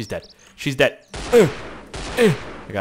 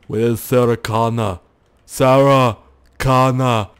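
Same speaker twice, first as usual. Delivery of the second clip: Terminator impression; 3 semitones lower, 3 dB louder, slower than usual. Terminator quote.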